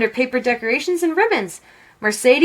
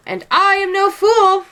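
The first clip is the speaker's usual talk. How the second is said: higher, louder defiant retort; an old man shouting back; indignant shout; 9 semitones higher, 4 dB louder than usual. A narrator's reading. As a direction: fire it back, offended. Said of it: "shouted Tio Narizo".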